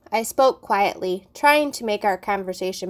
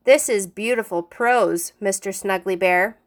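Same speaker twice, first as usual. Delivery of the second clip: sarcastic praise. Acted. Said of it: "teacher sarcastic after mock reading".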